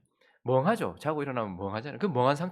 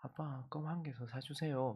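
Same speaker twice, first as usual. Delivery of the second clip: soft, slow coaxing little plea; hushed slow wheedle; wheedling child; 2 semitones higher, 8 dB quieter, slower than usual. Retold or imitated. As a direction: sweet-talk dad for one more. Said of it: "그랬더니".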